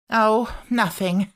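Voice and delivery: coy maid. A narrator's reading. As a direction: hold back the news, teasingly. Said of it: "said Martha".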